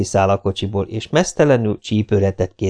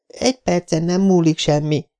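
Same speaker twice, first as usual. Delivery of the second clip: snapping back; 9 semitones higher than usual. Acted. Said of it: "vágott vissza a nő".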